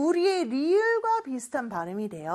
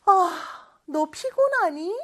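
caring question; 6 semitones higher, 3 dB louder than usual. Acted. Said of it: "이렇게도 물어볼 수 있겠네요".

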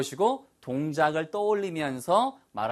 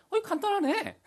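breezy. Shown as a demonstration. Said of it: "이렇게 생각하시면 돼요".

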